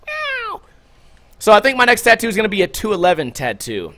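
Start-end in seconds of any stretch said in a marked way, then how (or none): 0.1-0.6 tiny, very high kitten mew; imitated meow. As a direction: squeak out a soft high meow. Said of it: "then they turn into a meow".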